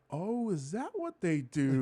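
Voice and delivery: slow, lightly voiced gawking tourist; a touch of fake wonder; mock tourist. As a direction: draw it out like a marvelling sightseer. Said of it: "they have tourists walk through like".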